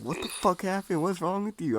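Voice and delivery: loud, high parental outburst; imitated alarmed parents. Acting out alarmed parents bursting in.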